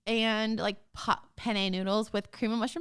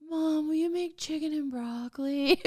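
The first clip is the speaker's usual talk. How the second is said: put-on kids' pleading request; 5 semitones higher than usual. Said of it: "they'll be like".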